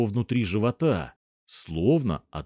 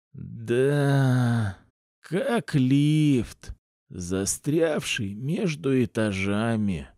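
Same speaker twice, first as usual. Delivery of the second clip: slow, barely voiced words; voiceless, strained; 2 semitones higher, much slower than usual. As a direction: mouth it with no voice left. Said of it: "уже не было голоса".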